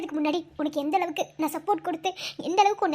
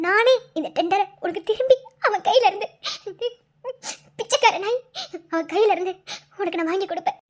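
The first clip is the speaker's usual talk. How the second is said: angry vow; 3 semitones higher, 4 dB louder than usual. Acted. Wife vows revenge on the cheater.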